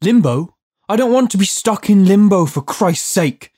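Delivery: loud, high, indignant protest; yelling. A narrator's reading. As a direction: yell it in outraged disbelief. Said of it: "Judd yelled".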